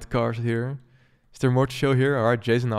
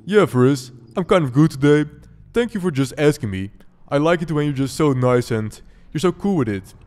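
a lightly voiced made-up friend, a touch louder; made-up voice for Schweihund; 3 semitones higher, 6 dB louder than usual. Player voices his friend Schweihund answering back, lightly put-on voice. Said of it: "should I just make a voice up for you".

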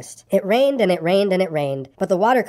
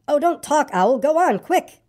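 high, impatient urging; high-pitched storybook urgency; urgent hurrying; 7 semitones higher, slower than usual. Acted. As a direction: hurry a dawdling friend along. Boy hurries Owl off to rescue.

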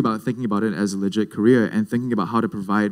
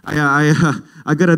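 higher, lightly swaggering gangster greeting; mock gangster; 5 semitones higher, 3 dB louder than usual. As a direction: try to sound like a gangster to your dad. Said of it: "try to be all, like, like, gangster".

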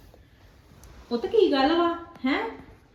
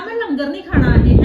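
louder mocking imitation of his refusal; mock yell quoting son; 3 semitones higher, 9 dB louder than usual. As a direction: throw his stubborn words back, loudly. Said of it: "ਆਂਦਾ". (ਉੱਚੀ ਨਕਲ ਕਰਦਿਆਂ)

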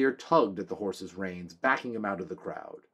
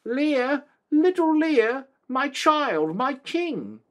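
put-on much higher, loud, cracked old man calling out; feeble roupy voice; 8 dB louder, much slower than usual. A narrator's reading. Old father Drin calls to his son, feeble and roupy. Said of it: "a feeble, roupy voice called".

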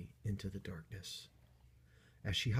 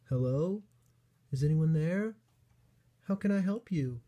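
higher little bunny voice, searching; questioning storybook call, pitched up; 7 semitones higher, 4 dB louder than usual. Acted. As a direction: call gently into the hills as a small bunny. Bunny calls out to unseen crier.

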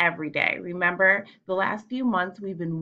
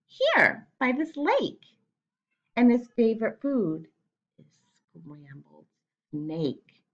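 teasing mouse; slower than usual. Acted. Mouse teasing the snake about the Gruffalo, sly and dropping. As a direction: tease the snake with the punchline.

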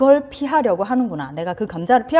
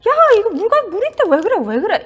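higher, louder impatient scolding; dismissive mother; 10 semitones higher, 3 dB louder than usual. Retold or imitated. Mother scolding a scared child, impatient and dismissive. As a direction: brush off the child's fear with a sharp "야". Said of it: "엄마들 이렇게 말하는 사람 있어요".

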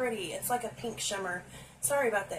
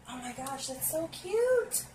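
delighted coo; 6 semitones higher than usual. Real, not acted. Delighted by eyeshadow.

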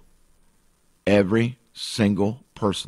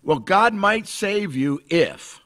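mock hedging; 10 semitones higher, slower than usual. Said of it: "nowhere in the Bible can you find".

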